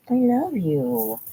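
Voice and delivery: slow, drawn out love you; tender. Real, not acted. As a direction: linger on each word. Tender words to dog.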